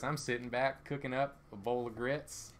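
relaxed Southern drawl, slowing down; sit back into an easy Southern accent; unhurried, porch-sitting Southern voice. Shown as a demonstration. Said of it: "using my Southern voice".

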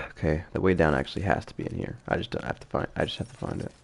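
soft, unvoiced mutter to self; quiet muttering. Real, not acted. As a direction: mumble it under your breath. Quietly working out a puzzle.

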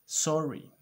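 like a scolded puppy; hammed-up apology; puppy-eyed sorry. Shown as a demonstration. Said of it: "carita de cachorrito regañado".

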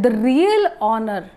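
"real" pushed and drawn out; stress on real. Shown as a demonstration. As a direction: give "real" the weight. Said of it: "We are stressing on this word".

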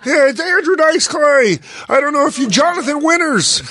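high mock voice rattling off old names; clueless old-timer. Host mocks the comic listing forgotten stars, high mocking voice. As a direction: play a grandpa dropping names nobody knows.

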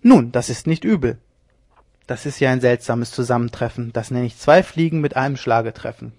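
loud gloating. Acted. Leone gloating over the found rival, loud scorn. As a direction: gloat then call for the gallows.

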